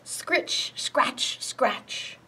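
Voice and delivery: hushed, raspy-edged scratching words; scratching noises. A narrator's reading. Skunk scratching away in the story, softly imitated.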